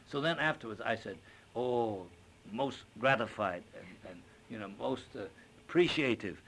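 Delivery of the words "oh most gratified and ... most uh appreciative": put-on Chinese accent. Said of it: "with a little Chinese accent".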